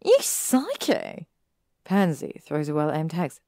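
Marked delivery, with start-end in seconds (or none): 0.1-1.2 high, slow, loud shriek of outrage; shrieked insult. Acted. Pansy shrieking at Malfoy after his prank, loud and high. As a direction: scream it at the prankster.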